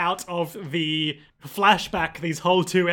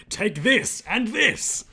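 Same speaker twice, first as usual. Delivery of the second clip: mock battle cry; 4 semitones higher, much slower than usual.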